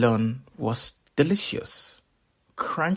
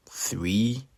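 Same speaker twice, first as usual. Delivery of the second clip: whisper; 3 dB quieter than usual. A narrator's reading. Storyteller's teasing whisper.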